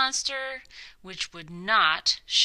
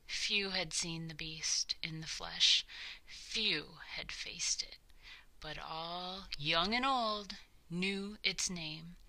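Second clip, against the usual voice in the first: softer whispered narration; ominous whisper; 3 semitones lower, 7 dB quieter than usual. A narrator's reading. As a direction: whisper it like a secret about the beast.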